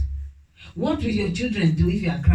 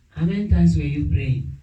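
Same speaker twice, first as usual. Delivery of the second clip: pastor's advice; 5 semitones lower than usual. Retold or imitated. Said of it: "Oyedepo said".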